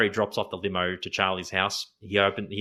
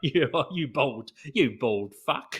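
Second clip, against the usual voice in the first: put-on Cockney accent, higher pitch, much slower; 4 semitones higher than usual. Repeating the insult thrown at Larry, as Heather Mills in a really Cockney accent. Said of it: "It's like a really Cockney kind of accent".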